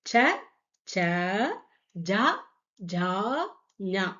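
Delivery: ச, ச, ஜா, ஜா, ஞா spaced out and clearly sounded; Hindi ca-row recited. Shown as a demonstration. Teacher asking students to listen, careful syllable recitation. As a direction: say ச ச ஜா ஜா ஞா so the differences are heard. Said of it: "புரிஞ்சுதுங்களா different?".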